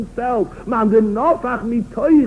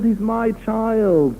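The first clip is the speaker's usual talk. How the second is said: fond king; 2 semitones higher than usual. Retold or imitated. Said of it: "the Melech says".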